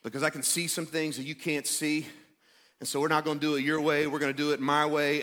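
low, gentle but firm refusal; kind and loving. Acted. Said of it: "Jesus very kindly and lovingly says".

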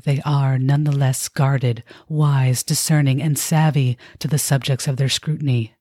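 sensual narrator voice. Acted. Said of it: "I have to do so in my sensual narrator voice".

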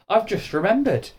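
high-pitched sudden realisation; delighted cry. A narrator's reading. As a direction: exclaim it with delight. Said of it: "cried Mister Majika in delight".

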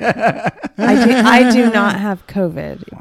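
hoarse, slow and laughing; raspy voice through a laugh; smoker's rasp. Real, not acted. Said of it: "Megan and Brian have smoker's voice".

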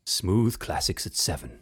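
slow, smooth radio announcer; warm announcer. Shown as a demonstration. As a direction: roll it out like a classical radio host. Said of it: "Can you do".

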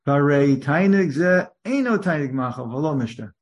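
firm stress on "eino tainug machal"; emphatic quote. Retold or imitated. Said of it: "That's what he underlines".

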